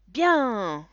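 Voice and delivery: put-on high, loud kids' reply; children answering. A narrator's reading. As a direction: shout it like eager kids. (réponse d'enfants aiguë)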